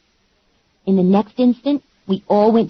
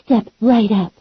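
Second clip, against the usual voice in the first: higher, showy emcee voice working the crowd; mud wrestling emcee; 4 semitones higher than usual. Acted. Mary Maggie hyping the crowd from the stage, showy emcee voice. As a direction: announce her like a ringside host.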